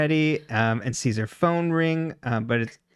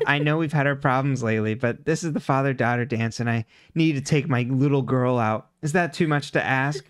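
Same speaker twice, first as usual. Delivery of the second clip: snivelly, whiny pleading father; Byron. Acted. Father begging daughter for the father-daughter dance, snivelly. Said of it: "Byron voice".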